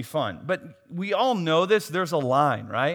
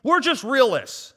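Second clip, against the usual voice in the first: higher, slower sing-song excuse; mocking excuse voice; 8 semitones higher, 7 dB louder than usual. Preacher mocks a churchgoer's excuse, higher and slower. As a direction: parody a defensive churchgoer.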